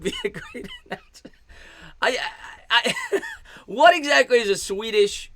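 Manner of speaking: real laugh breaking into the words. Real, not acted. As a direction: crack up and struggle to get the question out. Cracks up at viewer's comment.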